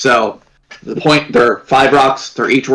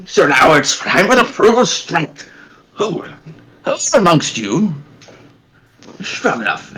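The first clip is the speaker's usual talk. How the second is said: goblin announcer; 5 semitones higher than usual. Acted. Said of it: "the goblin's like".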